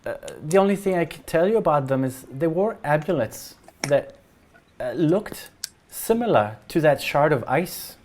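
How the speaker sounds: lightly voiced villager, halting recollection; a hint of a troubled parent searching for details; worried parent character. Same parent character describes amulets.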